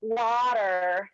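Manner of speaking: "Water." with a South African vowel and no final r, said slowly; South African accent. Shown as a demonstration. Friend on a podcast shows her South African accent. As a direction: say "Water." the way a South African would, with a long open o. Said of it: "I don't say water".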